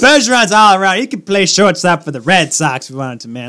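Boston sports fan boasting; hammed-up Boston accent. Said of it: "Boston accent".

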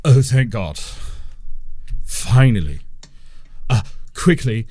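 high, loud, pleading sheep voice; panicked sheep wizard. Acted. Trapped wizard sheep begs the party, high and desperate. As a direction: beg the adventurers for rescue. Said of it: "a blank sheep-like expression goes".

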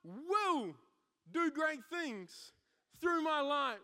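slow, loud proclamation as Joshua; Joshua proclaiming. Acted. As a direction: speak as Joshua to his people. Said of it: "Joshua looks at the Israelites and goes".

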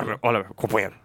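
a light touch of Lula's lisp. Retold or imitated. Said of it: "Parece muito Lula".

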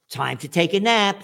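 sing-song nursery teacher, mocking; teacher announcing nap time. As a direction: parrot a kindergarten teacher. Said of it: "That's what they told me in kindergarten".

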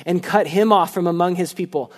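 measured, solemn Bible reading; scripture reading. Acted. Pastor reading Leviticus aloud, solemn and measured. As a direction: read the passage with weight to the congregation.

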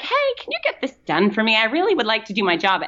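lightly acted polite plea; sweetly asking. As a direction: ask nicely, a touch sugary. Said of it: "get things done with sweet".

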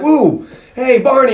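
high, whooping acted greeting; good mood. Vinny walks out and greets Barney, mock-jubilant whoop. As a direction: call out as cheerful Vinny. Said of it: "he's in a good mood".

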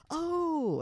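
loud, high, drawn-out OH; excited squeal. Retold or imitated. Friend hearing this is Ricky, excited drawn-out oh. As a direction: imitate an over-excited girl's long whoop. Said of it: "And she got all excited".

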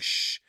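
soft hushing noise; a quiet drawn "shh"; imitated shush. Roommates react in the retold sketch, soft shush.

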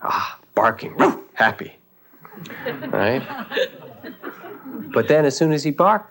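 ordinary talk

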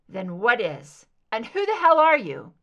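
loud, heated challenge; shouting at the hidden captor; angry demand. Acted. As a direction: throw the question at her hard. Captive angrily demands identity.

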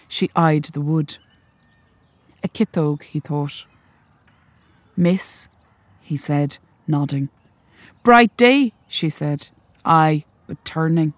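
measured, even reading of a short story; story narration. A narrator's reading. Author reading her story to the audience, measured and even. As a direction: read it like an author at a launch.

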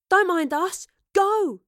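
high, loud urging shout; urgent call. A narrator's reading. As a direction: call out, urging them away. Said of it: "Astrid called".

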